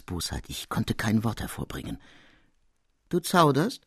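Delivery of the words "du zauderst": higher, cutting question; sharp tone. Acted. The master sharply challenges the hesitating apprentice. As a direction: snap the question at him. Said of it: "mit scharfem Ton".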